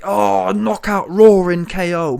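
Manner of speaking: loud, drawn-out mock hype. Mimicking fans over a Fury jab, mock hype. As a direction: stretch it out like a roaring knockout call.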